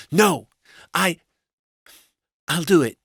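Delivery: high, halting wife voice; high-pitched, hesitant resolve; reluctant wife. A narrator's reading. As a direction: refuse loudly, then give in haltingly.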